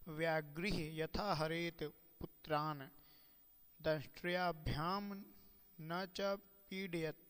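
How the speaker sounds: recited like a scholar quoting scripture; Sanskrit verse recitation. Acted. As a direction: intone each word of the verse carefully.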